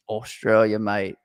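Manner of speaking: low, brief attempt at an Australian accent. Host playfully answering the request to talk Australian, mock Australian accent. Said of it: "can we talk in an Australian accent".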